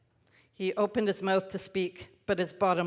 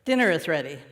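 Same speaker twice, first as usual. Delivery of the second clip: calling out; 6 dB louder, faster than usual. Acted. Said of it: "grandfather called out".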